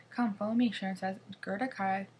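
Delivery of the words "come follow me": calling out. Acted. Calling the frozen kids.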